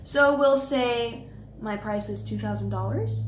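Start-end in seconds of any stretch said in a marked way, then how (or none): 1.6-3.2 uptalk, rising at the end on "dollars"; statement as question. Shown as a demonstration. Coach shows how people state their price, question inflection. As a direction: lift "dollars" as if asking. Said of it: "we turn these statements into questions".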